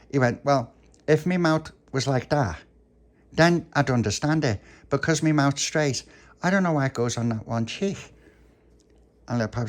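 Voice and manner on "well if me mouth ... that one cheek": lightly voiced child, pitched up; a touch of baffled insistence; puzzled Tony. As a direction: protest mildly, reasoning it out. Tony explains his straight mouth.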